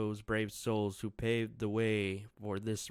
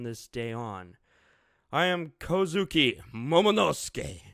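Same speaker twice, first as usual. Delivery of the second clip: put-on commanding young lord; 4 semitones higher, 7 dB louder than usual. Momo proclaims himself to Wano.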